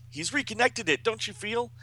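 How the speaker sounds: high-pitched comic-book panic; dramatic high exclamation; alarmed cry. Acted. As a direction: call out the danger, stretching the end. Acted alarm at being transported.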